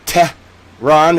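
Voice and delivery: Tehran split into "Teh... rahn"; exaggeratedly careful "Teh, rahn"; phonetic attempt. Shown as a demonstration. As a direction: sound out "Tehran" with a gap between syllables. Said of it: "Arabic phonetic pronunciation".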